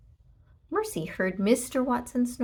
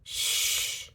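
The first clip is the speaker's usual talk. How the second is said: shushing. A narrator's reading. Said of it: "said Leroy again".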